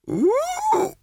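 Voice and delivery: high ape hoot, shouted; a high excited orangutan cry. A narrator's reading. Librarian orangutan hoots.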